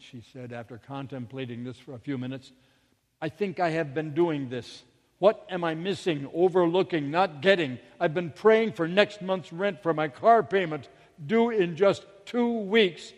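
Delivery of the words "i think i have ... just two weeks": louder, frustrated self-questioning; rising panic. Retold or imitated. Mother questioning what she is missing, increasingly agitated. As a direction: build from puzzled to urgent, pushing the final words. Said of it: "she began to feel the panic".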